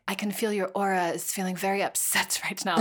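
a weak, mocking French accent; bad French accent. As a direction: imitate the French lady with a poor French accent. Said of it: "This is my French accent. It's not very good".

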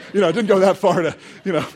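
laughing at own slip; amused. Real, not acted. Speaker correcting the dropped baby in the story, amused. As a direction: break into a chuckle mid-correction.

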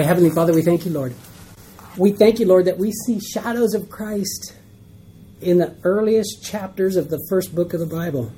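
earnest closing prayer to God. Acted.

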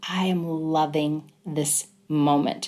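slow, deliberate, tender savouring. Retold or imitated. Mother recalls wanting to say it in beautiful moments, savouring. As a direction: let each word sink in slowly.

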